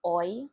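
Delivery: "oy" glided from open o into a short ee; oy sound demo. Shown as a demonstration. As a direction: say "oy" clearly as one gliding vowel. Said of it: "which sounded as".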